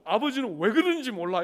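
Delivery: loud mock exasperation from wife; wife's frustration. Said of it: "막 안타까워요".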